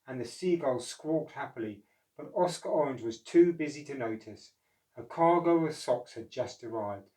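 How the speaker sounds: put-on lively read-aloud voice for children; storybook narration. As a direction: tell it like a bedtime picture book. Reads picture book story.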